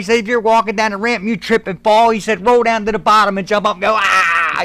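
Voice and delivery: retold hearty encouragement; pep talk. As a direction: egg a nervous friend on. Retelling colleague's pep talk.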